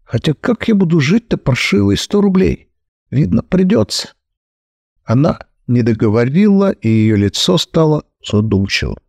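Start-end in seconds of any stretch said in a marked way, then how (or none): 0.0-4.1 bewildered. Acted. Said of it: "растерянно села".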